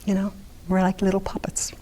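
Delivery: soft confiding whisper; whispered aside. Real, not acted. Speaker confiding to the audience about trauma survivors, whispering. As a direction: let it slip out under your breath.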